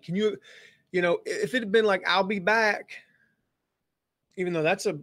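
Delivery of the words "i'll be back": put-on higher, heavy Austrian accent with p for b; a quick Austrian movie-star accent; Arnold Schwarzenegger. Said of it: "Arnold Schwarzenegger's accent".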